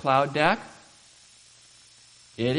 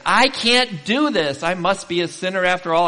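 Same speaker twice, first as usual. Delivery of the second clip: despairing cry; 5 semitones higher, 7 dB louder than usual. Retold or imitated. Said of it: "we say".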